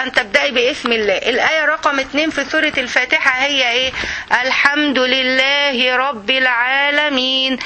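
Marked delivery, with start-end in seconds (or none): 4.4-7.6 drawn out, reverent recital of the verse; slow Quran recitation. Shown as a demonstration. Teacher reciting the verse slowly for her students. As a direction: recite it unhurried, savouring each word.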